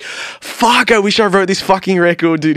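high, hushed-to-earnest gush; awed envy. Retold or imitated. Friend from a band hearing the EP, imitated envy.

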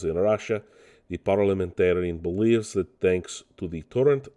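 a light, half-hearted mock Russian accent. Host quotes a Russian newspaper in a mild mock Russian accent. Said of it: "just Russians coming in and taking over my podcast".

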